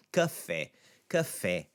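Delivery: "café" stressed on the final open é; second-syllable stress. Shown as a demonstration. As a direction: land the stress on the end of "café". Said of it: "It's the second syllable that's the accentuated one".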